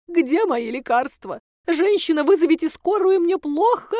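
hammed-up sickly plea; fake sick plea. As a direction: demand an ambulance like she's dying. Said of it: "Обратилась она ко мне".

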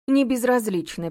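slow sneering echo of "Не безразлична"; mock his words; mocking mimicry. A narrator's reading. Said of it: "передразнила Олега женщина".

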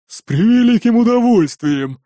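slow, relishing orc woman; gleeful. A narrator's reading. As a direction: savour the answer. Archanka agreeing gladly. (Гришрари охотно соглашается, медленно)

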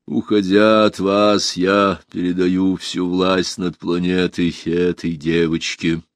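slow, measured last decree; solemn farewell. A narrator's reading. Dying empress handing power to Alisa, solemn and slow. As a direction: pronounce it slowly, with weight.

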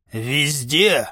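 a lofty, pompous single word; grandiose pathos. A narrator's reading. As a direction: declaim it like a hero of legend. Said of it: "с пафосом ответил нагибатор".

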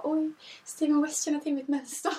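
half-laughing, thrilled disbelief; starstruck. Retold or imitated. She learns the designer knows her pattern, giddy. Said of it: "blev jag lite starstruck igen".

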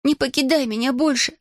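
put-on high, begging girl's voice; girl's plea. Girl begging her dragon to stay, high. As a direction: implore him never to leave. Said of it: "взмолилась Алиана".

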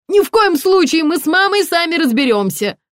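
high, loud flustered refusal; squealing. A narrator's reading. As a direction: keep squealing to ward off the intruder. Взвизгнул Дегтярев.

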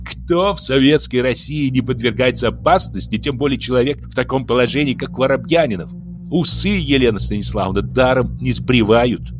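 sceptical irony. Acted. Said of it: "Запасы иронии".

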